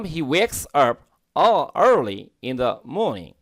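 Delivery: British reading with no r in 'morning'; British accent. Shown as a demonstration. Teacher modelling the sentence for learners, British accent. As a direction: read it British, rounded 'maw-ning'. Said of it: "এটা হচ্ছে British উচ্চারণ".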